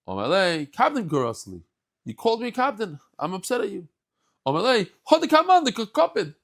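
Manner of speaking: high, hurt, accusing; stung and accusing; offended retort. Acted. Elijah voiced, offended.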